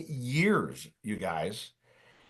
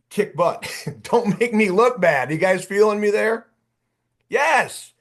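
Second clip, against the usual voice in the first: higher, emphatic coach urging them on; fired up; 5 semitones higher, 4 dB louder than usual. Real, not acted. Coach urging his referrals not to embarrass him, fired up. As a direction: punch it out like a worked-up coach. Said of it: "So I'm getting fired up".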